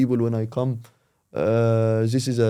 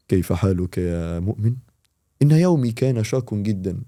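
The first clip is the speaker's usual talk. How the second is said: mock formal voice note; 3 semitones lower than usual. Joking voice note to a friend, mock formal. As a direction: ham it up like a stiff scholar. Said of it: "صحي واحد صاحبي ... بفويس نوت".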